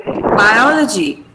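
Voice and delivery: "biology" drawn out as by-O-luh-jee; "biology" with a long, strong second syllable; stress on O. Shown as a demonstration. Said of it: "It is R, right?".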